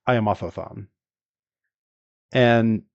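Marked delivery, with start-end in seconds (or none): 0.1-0.9 Otho-san with a lisped th; light mock lisp on Otho-san; imitating a lisp. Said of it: "He just says".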